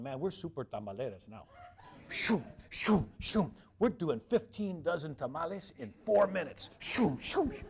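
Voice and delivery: imitating the delighted tamale makers; excited boasting. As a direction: bubble over with pride at the speed. Mexican ladies excitedly boasting.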